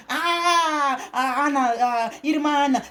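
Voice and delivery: drawn-out "ah" mimicking the others; mock exclamation of other people. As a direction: imitate others exclaiming with a long sigh-like "ah". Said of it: "Outros dizem".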